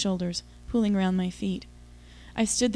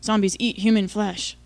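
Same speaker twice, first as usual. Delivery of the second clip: lightly voiced grunting zombie, a bit louder; 3 dB louder than usual. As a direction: grunt it like a hammy movie zombie. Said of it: "he grunted".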